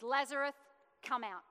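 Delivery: a firm called name, then a short order; a bold preacher's call; spoken command. Acted. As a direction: voice of authority. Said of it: "He says".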